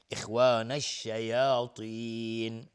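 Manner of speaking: slow recitation with a thick ط in الشیاطین; heavy emphatic ta. Shown as a demonstration. Teacher showing an elevated letter, slow heavy ta. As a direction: draw out الشیاطین, its "ta" full and heavy.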